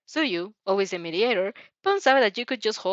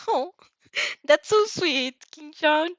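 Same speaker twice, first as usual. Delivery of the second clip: higher, slow, laughing delight; bright and touched; 8 semitones higher, slower than usual. A narrator's reading. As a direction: melt at the kindness, beaming. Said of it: "Uraraka smiles brightly".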